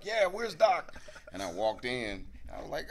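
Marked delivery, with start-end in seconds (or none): 0.0-0.9 loud, high hustler demand; Axel Foley. Retold or imitated. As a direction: bark it high and pushy. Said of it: "my Axel Foley".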